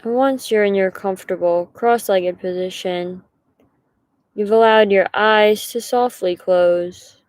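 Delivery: unhurried guiding voice with long pauses; guided meditation. Acted. Meditation leader invites listeners to settle into position, unhurried guiding voice. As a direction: settle them in gently, pausing between instructions.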